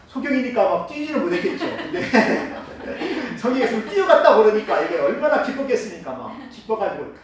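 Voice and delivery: words through real laughter; laughing while talking. Real, not acted. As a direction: chuckle through the lines. Preacher laughing while speaking. (웃으면서 말하듯이)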